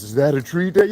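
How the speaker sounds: lightly voiced kid asking his dad; mimicking the kid. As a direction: ask it like the now-grown son. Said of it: "now he does it to us".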